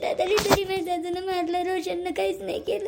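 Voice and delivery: tearful complaint, voice breaking between sobs; crying. Acted. Wife sobbing to husband about his mother hitting her. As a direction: sob it out as a hurt young wife. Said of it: "Sheetal, रडू नको ना".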